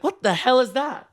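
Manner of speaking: high-pitched mock outrage; appalled diners. Diners seeing him sprint past, high and appalled. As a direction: voice a shocked onlooker, pitched high.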